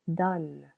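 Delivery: "Donne" as a single beat ending on n; one-syllable demonstration. Shown as a demonstration. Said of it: "one syllable".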